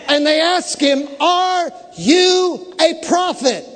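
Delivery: high, drawn-out preaching cry; full-force preaching. Acted. Preacher telling church of the question put to John, full-force preaching. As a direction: build the question with big, ringing emphasis.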